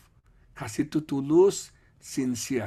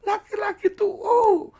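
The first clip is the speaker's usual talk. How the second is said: mock lament; 7 dB louder than usual. Mocking men in sermon.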